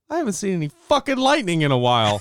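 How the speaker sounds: fast, laughing complaint; laughing disbelief. Retold or imitated. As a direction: chuckle through the realisation. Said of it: "And then I was".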